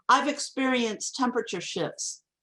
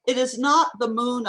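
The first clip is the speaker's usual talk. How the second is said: "not" picked out higher and louder; stress on NOT; 3 semitones higher, 3 dB louder than usual. Shown as a demonstration. Lecturer reading the line addressed to someone, emphatic stress on NOT. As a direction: lean firmly on NOT, then let "the moon" fall. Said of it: "There's emphasis on the word not".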